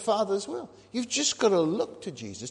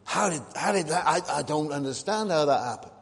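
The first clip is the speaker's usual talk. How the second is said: a loud startled whoa, then puzzled; hammed-up astonishment at the unexplained; mock amazement; 5 dB louder than usual. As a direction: act out someone baffled by a strange event. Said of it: "and they say".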